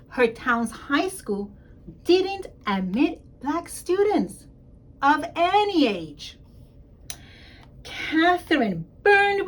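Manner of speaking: put-on lively storybook reading for young kids; expressive picture-book read-aloud; reading to children. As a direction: read it out like story time in class. Principal reads picture book aloud.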